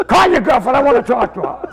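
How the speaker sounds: imitating an old man's loud order; mock-bossy, mildly exasperated; barked demand. Old man repeats his demand.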